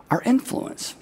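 breathy whispered ending. Acted. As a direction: drop to a whisper to land the point. Dramatic drop at point's end.

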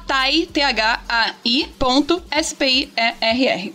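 slow letter-by-letter spelling. Shown as a demonstration. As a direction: spell each letter out slowly. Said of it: "eu vou soletrar aqui".

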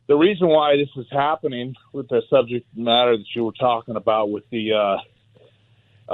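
winded from running up stairs; catching breath between words. Real, not acted. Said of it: "I'm catching my breath. I ran up the stairs".

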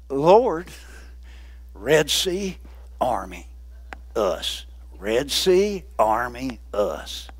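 low, halting, broken-off fragments; frightened Israelites stammer their plea to the Lord; panicked Israelites. Acted. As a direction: stammer it out like a scared crowd.

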